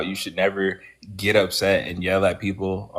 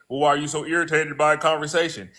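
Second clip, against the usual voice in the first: lightly mimicked critic, pitched up; questioning critic; 6 semitones higher than usual. Host mimics someone questioning the irritation, lightly mocking question. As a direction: put on a higher questioning voice. Voices the questioner challenging the speaker.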